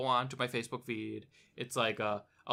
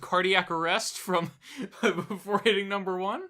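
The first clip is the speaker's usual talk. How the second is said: laughing; 5 semitones higher than usual. Pretend. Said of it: "mock panic while laughing".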